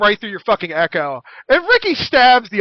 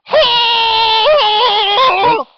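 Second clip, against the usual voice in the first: a high scream reined in so it won't peak; scream, but pull it back from full blast; held-back scream; 13 semitones higher, 4 dB louder than usual. Acted. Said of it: "try and make it not peak".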